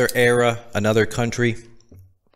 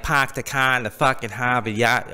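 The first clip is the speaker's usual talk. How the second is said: mock Boston accent, dropped Rs. Shown as a demonstration. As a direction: exaggerate a Boston accent on the catchphrase. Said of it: "we have enough of it in us".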